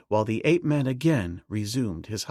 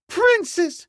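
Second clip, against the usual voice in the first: the name repeated, pitched higher still; beseeching; 5 dB louder than usual. A narrator's reading. Servant girl pleading again, higher and louder. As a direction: beg her, rising even higher. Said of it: "she beseeched".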